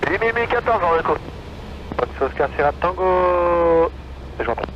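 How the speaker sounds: tinny radio transmission; over a radio. Real, not acted. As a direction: heard through the headset. Tower calls other traffic over radio.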